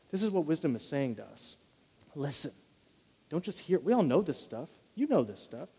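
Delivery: ordinary talk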